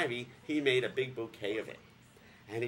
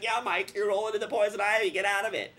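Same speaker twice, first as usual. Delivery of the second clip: exasperated; 8 semitones higher, 6 dB louder than usual. Retold or imitated. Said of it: "And I'm like".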